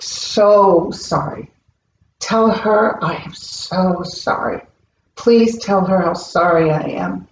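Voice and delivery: a mild imitation of a spirit begging forgiveness, drawn out. Uncle's spirit begging the medium to tell niece sorry, slow plea. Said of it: "he was just begging me".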